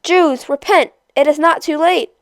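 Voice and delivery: crying out. Acted. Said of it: "cried out".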